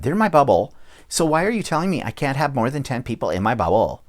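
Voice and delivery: mock whiny complainer, mildly put on; a hint of a nasal-free whine, half-hearted mockery. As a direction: lightly imitate a self-pitying whiner. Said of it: "notice I'm using my whiny voice".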